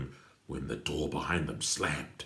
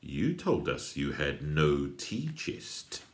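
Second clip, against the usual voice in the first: sneer; slower than usual. Acted. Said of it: "sneered Patrick".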